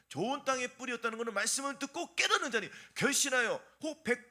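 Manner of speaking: driving, forceful recital of a parable; scripture recitation. Real, not acted. Preacher reciting the sower parable to the congregation, forceful recitation. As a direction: reel off the verses in a steady preaching cadence.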